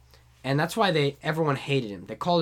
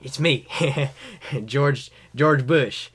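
lightly drawled happy-guy president; George W. Bush impression. Retrying the president, sounding happy all the time. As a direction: chuckle through a halting introduction. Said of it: "let me show you my George W".

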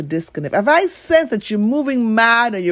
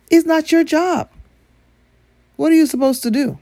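emphatic; 8 semitones higher than usual. Real, not acted. Repeated, louder, higher.

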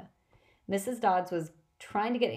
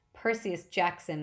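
put-on Deep South accent; slower than usual. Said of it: "in an accent that was definitely from somewhere farther south".

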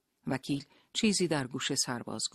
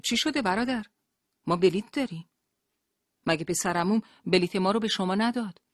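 high, louder anxious questions; frightened, trembling; 6 semitones higher, 6 dB louder than usual. A narrator's reading. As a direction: ask anxiously, voice raised in fear. (با ترس و نگرانی، صدای بالا)

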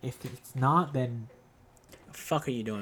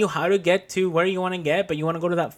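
angry rant; 5 dB louder, faster than usual. Real, not acted. Heated rant about ignored advice.

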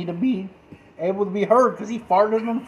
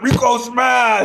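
Hulk-style shout; 4 semitones higher, much slower than usual. Pretend. Hulk-style joke chant.

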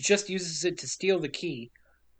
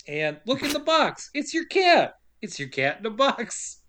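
coaxing reveal; 4 semitones higher than usual. Acted. Polly showing creature the cat.

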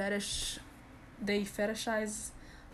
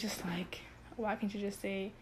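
whispered aside; 6 dB quieter than usual. Real, not acted. Frustrated aside to viewers.

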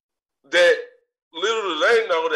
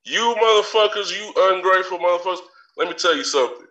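mock fury; faster than usual. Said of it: "I'm fucking livid".

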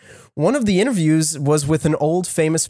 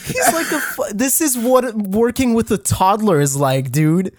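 exasperated; 7 semitones higher than usual. Real, not acted. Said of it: "exasperated about the artist".

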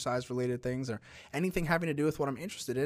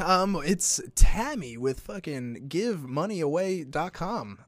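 high, loud, bubbly prize-announcer voice; over-the-top cheerful phone host; cheery sweepstakes caller; 5 semitones higher, 6 dB louder, slower than usual. Pretend. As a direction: gush like you're giving away millions.

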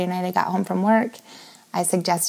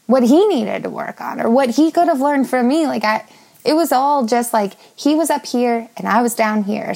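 higher and louder, pressing on; heated indignation; 4 semitones higher, 3 dB louder than usual. Real, not acted. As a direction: let the frustration lift the voice. Indignant self-reflection outburst.

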